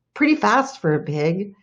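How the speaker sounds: usual speaking voice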